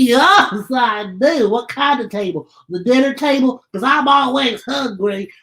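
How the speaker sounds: a lightly voiced eager little book puppet; chirpy eager puppet, keen to learn; Bookie puppet voice. Puppet Bookie greeting the host, lightly voiced eager chatter.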